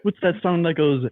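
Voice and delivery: silly clown. Pretend. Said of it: "we got Mister Krabs over here".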